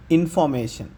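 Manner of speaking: ఇన్ఫర్మేషన్ said "in-fo-may-shun", no r; silent middle R. Shown as a demonstration. Teacher closing the examples, ఇన్ఫర్మేషన్ pronounced without r. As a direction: glide over the r in ఇన్ఫర్మేషన్, leaving only the vowel. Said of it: "దేని తర్వాత ఆర్ వచ్చినా అది silent".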